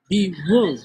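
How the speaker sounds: whisper. Real, not acted. Hissed curse.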